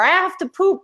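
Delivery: put-on high, childish little voice; mock baby voice. Mother voicing her toddler, in a high childish voice. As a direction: squeak it out like a small kid.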